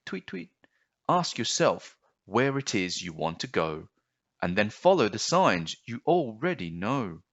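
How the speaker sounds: a chirped tweet, then a lightly voiced bird; sing-song advice from a little bird; wise bird.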